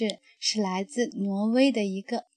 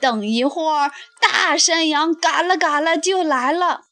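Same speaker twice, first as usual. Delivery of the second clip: goat voice; 2 semitones higher than usual. Acted. Middle goat begs troll.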